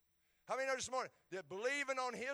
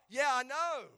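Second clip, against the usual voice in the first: louder, fed-up admission; exasperated yeah I know; 5 semitones higher, 12 dB louder, slower than usual. Retold or imitated. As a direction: snap back at the nagging voice, worn out. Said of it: "And I go".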